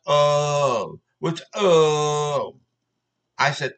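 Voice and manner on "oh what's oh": drawn-out, challenging mock "oh"; mocking echo. Angry customer confronts caught worker, mocking echo. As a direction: throw his "oh" back at him. Throws worker's "oh" back at him.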